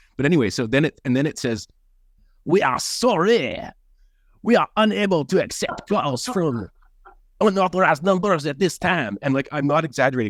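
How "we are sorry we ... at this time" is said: slow, high, exaggerated, drawn-out French accent. Retelling an automated phone message, Inspector Clouseau French accent. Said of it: "It was in a Clouseau accent, French accent".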